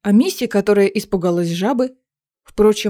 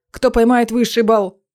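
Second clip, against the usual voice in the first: excited elf calling out; elf exclaiming; 3 dB louder than usual. Acted. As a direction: shout the reward to the class. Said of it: "воскликнул эльф".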